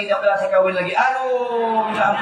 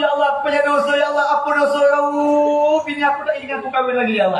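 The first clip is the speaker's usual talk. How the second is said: hammed-up whimpering confession; mock tearful plea; 3 semitones higher than usual. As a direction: fake sobbing sinner, played for laughs.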